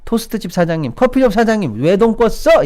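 high, accusing scold; mock berating. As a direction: call each culprit out in mock outrage. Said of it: "이러면서 욕을 얼마나 했습니까?".

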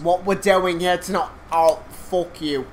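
a bad, tipsy British accent, loud and laughing; a slurred mock British host welcoming the viewers; drunk British accent. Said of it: "I'm a drunk British accent".

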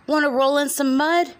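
high, loud pig voice. Acted. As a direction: squeal it like a pig. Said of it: "grunted the pig".

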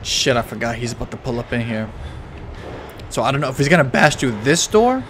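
low quiet tense voice; hushed. Real, not acted. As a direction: keep it down, scared. Hiding from monster, hushed.

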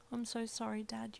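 a small remorseful whisper; whispered apology. A narrator's reading. Daughter to dad after the scolding, softly whispered. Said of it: "you whispered".

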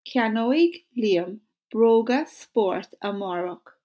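Ceannoig Liam broga sport amárach said slowly and evenly; slow model sentence. Shown as a demonstration. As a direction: lead the class at a slow pace. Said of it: "So say it with me".

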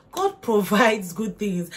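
slow, weighted "God provides good things"; emphatic. Shown as a demonstration. Stressing God's provision to viewers, emphatic. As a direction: lean on "God" slowly and firmly. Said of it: "I don't know how to emphasize".

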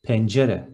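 Pencere in three crisp beats, pen-ce-re; three short syllables. Shown as a demonstration. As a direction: model Pencere syllable by syllable for repeating. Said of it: "Three short syllables".

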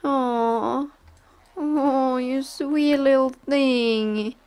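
cooing. Real, not acted. Cooing at pet.

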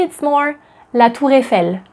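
La Tour Eiffel linked as tou-reiffel. Shown as a demonstration. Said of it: "We link it".

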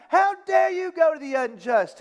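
apostle's closing indignant challenge; angry rebuke. Retold or imitated. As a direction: demand it with exasperation. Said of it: "He's angry".

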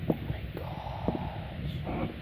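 very slow, drawn-out whisper; awed whisper. Real, not acted. Collector seeing rooted hair, slow awed whisper. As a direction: breathe it out slowly in awe.

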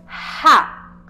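"Rá" with a loud, long throat H sound for the R, no tongue trill; strong guttural R. Shown as a demonstration. Teacher having pupils feel their throat, strong aspirated R in "Rá". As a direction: push the R of "Rá" from the throat, like a forceful "ha". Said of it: "A sua língua não vai tocar no céu da boca".

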